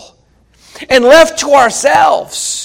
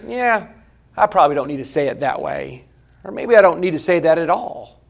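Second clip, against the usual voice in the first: softer, lower musing; thinking to oneself; 6 semitones lower, 7 dB quieter than usual. Acted. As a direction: murmur it like a private second thought. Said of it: "and you thought later".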